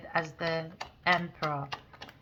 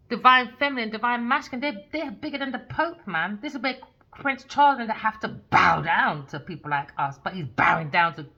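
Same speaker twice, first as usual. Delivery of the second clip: loud, raised-pitch outburst; indignant rant; 4 semitones higher, 8 dB louder than usual. Real, not acted. Reader protesting that they bow to nobody, indignant rant. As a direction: rant it out hard and high.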